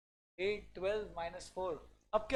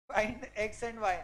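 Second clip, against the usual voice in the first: Find x and y stretched very slow and louder; drawn-out slow; 5 dB louder, much slower than usual. Shown as a demonstration. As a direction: drag each word out, teasing. (हर शब्द खींचकर बहुत धीरे)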